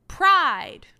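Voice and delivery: loud mock-booming Pride; a hammed-up, loud, booming Pride. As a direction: boom out Pride. like a lecturer, overdone. Repeating Dom's word mockingly.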